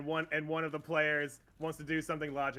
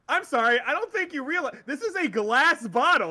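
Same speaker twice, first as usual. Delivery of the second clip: high, loud, cracking up through the quote; laughing disbelief; 10 semitones higher, 9 dB louder than usual. Retold or imitated. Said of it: "The guy's like".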